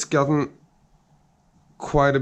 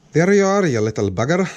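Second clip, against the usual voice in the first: triumphant exclamation; 2 semitones higher, 7 dB louder, faster than usual. Real, not acted. Finally catching the thread.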